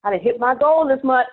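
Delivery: loud, high, smug and lazy; smug coasting voice. Pretend. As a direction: brag like you've got it made. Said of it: "when you're comfortable and I'm chilling".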